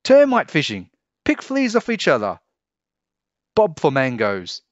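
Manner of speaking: high, loud eager shouting; excited chorus. A narrator's reading. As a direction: everyone calling out at once. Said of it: "Everyone answered at once".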